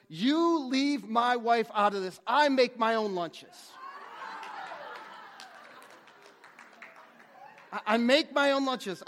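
firm insistence half broken by laughter; emphatic retort. Retold or imitated. Worker firmly tells his buddy off, laughing loudly. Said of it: "he says emphatically".

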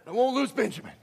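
high loud mock yell breaking into laughter; over-the-top stubborn dad yelling; hammed-up shout. Jacob shouts down the sons.

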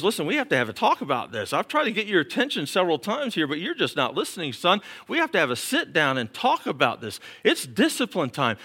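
a firm father pulling his son aside for discipline; stern fatherly God. Retold or imitated. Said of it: "he walked me over ... and says".

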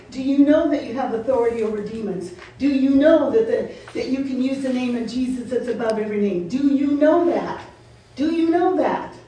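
building pulpit insistence; preaching. Acted. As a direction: drive the question home to the congregation. Preacher hammers repeated question.

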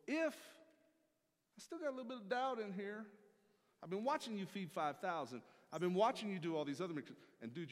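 high, loud, eager Peter; a brash fisherman daring Jesus; excited doubtful Peter. Acted. Preacher voicing Peter challenging Jesus, high and loud.

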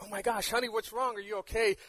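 lightly acted husband checking on his wife; worried husband. Husband to his crumpled, crying wife, acted worry.

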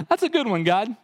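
put-on old Abram laughing at God's promise; laughing disbelief.

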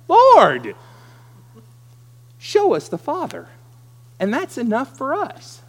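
shouted, rising high; eager loud demand. Acted. Philip demanding of Jesus, loud and high. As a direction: blurt it out loudly. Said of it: "the way they would have said it".

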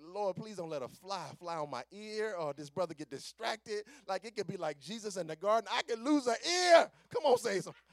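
mock-frantic plea, building to a shout; hammed-up panic rising to a loud cry; panicked prayer. Panicked prayer under the razor.

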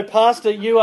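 high, loud put-on American accent; bad American accent. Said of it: "going into my bad American accent".

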